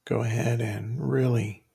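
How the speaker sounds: measured phrases with long pauses; guided meditation. Real, not acted. Teacher inviting listeners to recall a difficult situation, guided meditation. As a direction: guide listeners step by step, leaving room to think.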